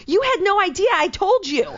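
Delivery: a retold friend snapping back in disbelief; mock indignant retort. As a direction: throw it back at her, exasperated. Arguing over text, friend's reply.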